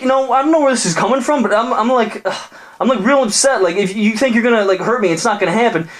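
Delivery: very high, fast whiny jock; upset bro. Acted. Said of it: "dude's like".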